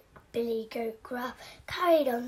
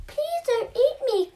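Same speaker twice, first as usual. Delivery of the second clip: higher pleading goat voice; medium goat pleading; 13 semitones higher than usual. Acted. Medium goat begs the troll, higher pleading voice. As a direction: beg like a scared goat. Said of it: "cried the medium-sized Billy Goat".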